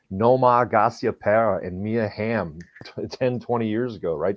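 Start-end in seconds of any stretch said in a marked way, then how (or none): 0.1-2.6 put-on Boston accent. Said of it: "my contrived Boston accent there".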